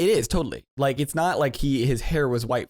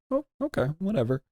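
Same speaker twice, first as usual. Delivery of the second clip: mock dismissive; 6 semitones higher, faster than usual. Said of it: "But I'm like".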